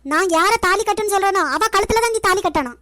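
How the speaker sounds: stern scolding. Acted. Mother ordering son Ragu whom to marry, stern and loud. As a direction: lay down the law to the son.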